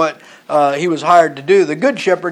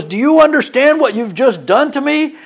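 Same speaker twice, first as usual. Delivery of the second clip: higher-pitched mock indignation; upset tour guide; 6 semitones higher than usual. Tour guide confronts the man chasing sheep, indignant retelling. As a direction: act out an upset guide's challenge, without shouting. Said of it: "He's so upset".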